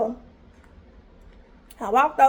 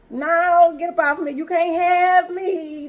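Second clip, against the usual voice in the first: firm refusal; 3 semitones higher, slower than usual. Retold or imitated. Refusing the man's advance.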